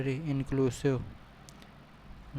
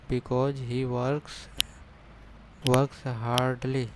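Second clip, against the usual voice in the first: very slow and louder, each word leaned on; slow emphatic reading; 5 dB louder, much slower than usual. Shown as a demonstration. Teacher dictating the answer to students, slow and emphatic. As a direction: spell out the phrase slowly for the students.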